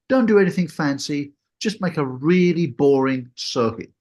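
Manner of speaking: breezy, offhand instructor, mildly imitated; casual instructor. Instructor sending student solo, mock casual and offhand. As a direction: toss it off like it's nothing. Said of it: "they say it in the most casual manner".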